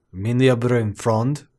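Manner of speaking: halting, slow attempt at German; butchered German. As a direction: stumble slowly through a German phrase. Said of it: "I will just butcher it".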